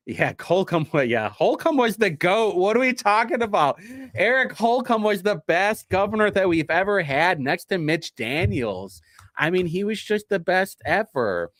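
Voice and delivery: mock-praising the old governor as the greatest ever; sarcastic shilling. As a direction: praise him like a paid shill, tongue in cheek. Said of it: "who do I sound like right now?".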